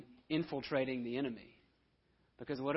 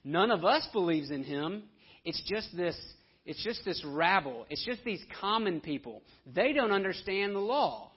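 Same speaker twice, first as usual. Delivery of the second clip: scornful irony; 4 semitones higher, 4 dB louder than usual. Retold or imitated. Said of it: "listen to the irony".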